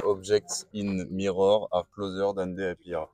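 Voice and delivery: thick French accent reading English. Real, not acted. Reviewer reading the mirror warning aloud, in French-accented English. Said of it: "J'ai un superbe accent anglais".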